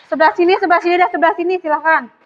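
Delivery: calling out. Real, not acted. Teacher calling class attention.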